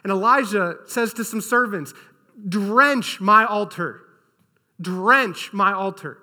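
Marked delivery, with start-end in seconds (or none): 2.5-6.2 slow, loud, drawn-out command; commanding order. Acted. Elijah ordering the servants to soak the altar, slow loud command. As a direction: boom out each word like an order.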